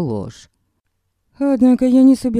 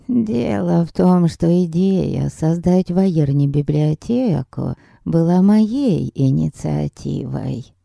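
put-on sweet old lady.

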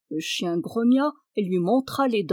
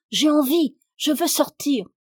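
put-on higher, louder child's plea; pestering children; 6 semitones higher, 5 dB louder than usual. A narrator's reading. Children pester the servant at his soup, insistent cry. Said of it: "les enfants vinrent encore l'importuner".

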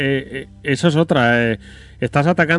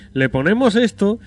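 higher, slow mock announcement; mock publisher warning, voice raised high; 5 semitones higher than usual. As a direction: parody a condescending publisher talking down to buyers. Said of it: "suena en plan".

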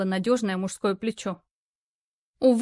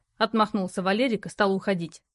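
ordinary delivery, nothing marked

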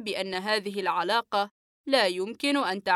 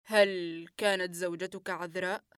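quiet, even, controlled question; composed doctor asks softly; same calm; 4 dB quieter than usual. Acted. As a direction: keep every muscle still, ask calmly. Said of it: "قلت بنفس الهدوء".

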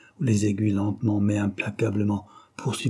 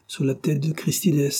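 higher voice, firmly insisting; insistent conviction; 5 semitones higher than usual. A narrator's reading. Ossip vouches for the oath, insistent. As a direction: swear it with raised certainty. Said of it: "insista Ossip".

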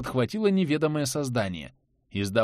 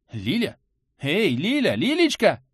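calling out; 5 semitones higher than usual. Acted. Anton calls the unconscious Lilya, anxious call. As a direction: try to wake her with a call.

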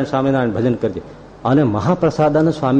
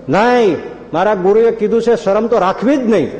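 higher, louder, insisting on the guru's word; stubborn loud insistence; 8 semitones higher than usual. Retold or imitated. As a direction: refuse the family, voice raised. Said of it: "જોર જોરથી બોલે". (ઊંચા અવાજે જીદથી)

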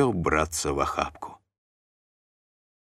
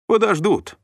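ordinary delivery, nothing marked

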